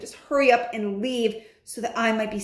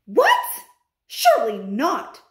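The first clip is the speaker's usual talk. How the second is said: surprised witches; 4 semitones higher, 5 dB louder than usual. Acted. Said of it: "cried the others".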